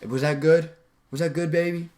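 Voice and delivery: needy rising question; seeking rapport. Shown as a demonstration. Coach mimicking someone wanting approval, seeking-rapport lilt. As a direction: ask for approval, lifting the ends. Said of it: "seeking rapport is what I was just showing you".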